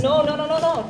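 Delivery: insistent no. Acted. Stopping her leaving.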